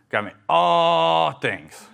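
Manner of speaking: put-on high, slow little-kid voice, drawn out; toddler's answer. Dad imitating his toddler's catechism answer in a high child voice. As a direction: mimic a small child reciting proudly.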